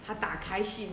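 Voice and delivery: plain reading voice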